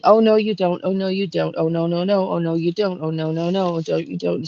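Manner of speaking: mildly frantic run of repeated denials; retold frantic. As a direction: imitate someone freaking out, lightly, words tumbling on. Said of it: "frantic, and I feel her freaking out".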